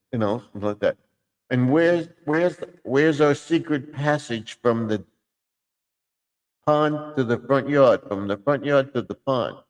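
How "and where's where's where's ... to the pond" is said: frog voice. Acted. Frog asks about passage.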